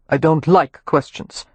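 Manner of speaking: slow and dismissive; slow, curt Rowan. Acted. Rowan refusing Amelia's questions, slow and dismissive. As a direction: cut her off, unhurried.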